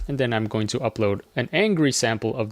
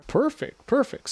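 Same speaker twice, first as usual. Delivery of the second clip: excited; 12 semitones higher than usual. Real, not acted. Pleased by the generated clip.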